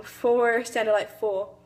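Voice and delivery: second "four" ends in a vowel, no R; R-dropped "four". Shown as a demonstration. Student demonstrating plantation speech, last "four" without its R. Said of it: "They replaced it with a vowel".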